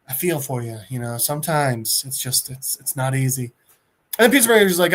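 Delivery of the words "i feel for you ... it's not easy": low, soft sympathy; soft, low, understanding; consoling. Acted. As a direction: commiserate gently, voice dropped. Gorilla consoles tearful Peacemaker.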